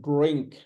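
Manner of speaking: drink with a rounded, weighty dr; "drink" with a heavy r; full-mouth drink. Shown as a demonstration. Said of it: "Full mouth".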